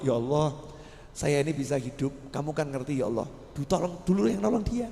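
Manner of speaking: a pious man interceding for his rescuer, softly; humble prayer. Acted. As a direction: pray quietly for the man who saved you. Pious man praying to God.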